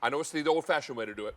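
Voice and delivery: normal talking voice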